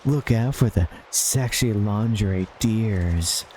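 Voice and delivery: slow, smooth mock ad read; late-night hotline ad. Streamer voicing a fake phone ad to chat, slow and smooth. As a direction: sell the hotline like a cheesy TV ad.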